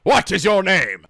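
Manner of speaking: slow, weighty question, leaning on what; a lightly voiced Holy Grail bridgekeeper; bridgekeeper impression. Quizzing the anime characters, in a slow mock bridgekeeper voice. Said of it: "Leorio's like".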